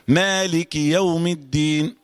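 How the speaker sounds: "مالك يوم الدين" drawn out with kasra on the kaf; careful tajweed reading; slow correct recitation. Shown as a demonstration. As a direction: recite it slowly, stretching "يوم". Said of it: "بالكسر كده".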